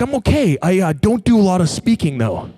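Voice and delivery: high, hesitant imitation of a nervous speaker; mildly anxious, apologetic retelling; nervous reply. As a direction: start high and let it drop away at the end. Voices nervous inexperienced speaker.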